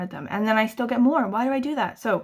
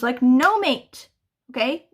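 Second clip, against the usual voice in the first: no mate; 5 dB louder, slower than usual. Retold or imitated. Scolding child in retelling.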